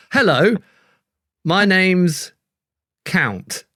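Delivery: lightly voiced vampire count; a hint of a sly vampire. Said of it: "so I'm the vampire".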